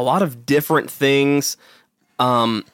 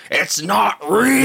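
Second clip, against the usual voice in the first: drawn-out, higher-pitched mock whine; mocking complainer; 7 semitones higher, much slower than usual. Podcaster mimicking critics of the Slender Man topic, mocking complainer. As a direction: whine it slowly, mimicking the naysayers.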